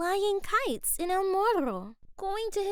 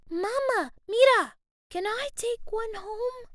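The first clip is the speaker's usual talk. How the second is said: eager pleading; 6 semitones higher, 4 dB louder than usual. A narrator's reading. Boy begging for frog.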